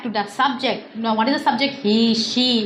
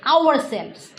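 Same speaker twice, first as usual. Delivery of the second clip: each word spaced out slowly; slow classroom demo sentence; slow, clear example; 3 semitones higher, slower than usual. Shown as a demonstration. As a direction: say it slowly like a teacher's model sentence. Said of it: "we is a plural".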